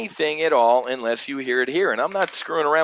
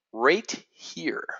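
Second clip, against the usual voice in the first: whisper; 3 semitones higher, 5 dB quieter than usual. Real, not acted. Pointing at a chart.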